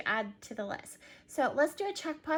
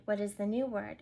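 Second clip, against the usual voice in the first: ordinary delivery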